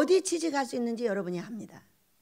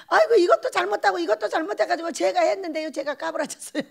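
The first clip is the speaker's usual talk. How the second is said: mock wailing lament; 5 semitones higher, 5 dB louder than usual. Member lamenting mistakes to the director.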